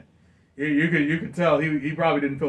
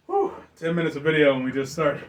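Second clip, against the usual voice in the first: laughing through words; chuckling as he talks. Real, not acted. Laughing at their excitement.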